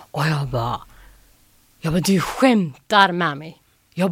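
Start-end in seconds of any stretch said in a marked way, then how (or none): 2.0-3.6 slow, drawn-out disbelief; disbelieving. Retold or imitated. Finalist answering the TV caller, disbelieving. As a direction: stretch the words out, stunned. Acted disbelief at phone news.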